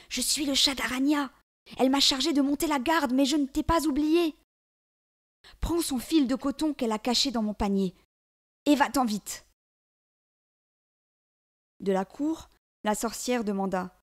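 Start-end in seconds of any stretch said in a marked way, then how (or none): 0.1-9.4 high, louder cat voice; an urgent cat, pitched high; talking cat. A narrator's reading. Cat helping the girl escape, high urgent voice.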